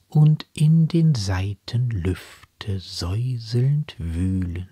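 slow, measured verse reading; poem recitation. Acted. Reader presenting a love sonnet before explaining it, slow poetic recitation. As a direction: recite the sonnet with drawn-out line endings and deliberate pauses.

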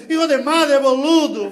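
mock Argentine road rage; Argentine driver cursing. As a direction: shout it like an angry Argentine driver. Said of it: "um argentino coloca a cabeça".

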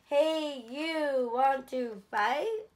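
grouchy challenge. A narrator's reading. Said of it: "the grouchy ladybug said".

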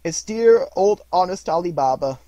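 high, loud, overjoyed rush of memories; between laughing and crying. A narrator's reading. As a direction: gush like a delighted child. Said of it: "voice between laughing and crying".

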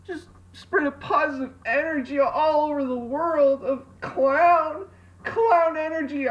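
dreamy enthusiasm. Retold or imitated. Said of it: "Just be like".

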